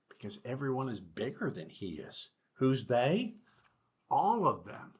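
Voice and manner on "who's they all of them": a lightly higher, small frightened mouse voice; little mouse. A narrator's reading. Superintendent voicing the mouse among big animals, lightly higher. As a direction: squeak it out as the tiny one.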